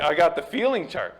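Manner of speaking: a touch of put-on showmanship; hammed-up counselor. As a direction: lightly imitate a counselor proudly presenting. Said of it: "I'm hamming it up a bit".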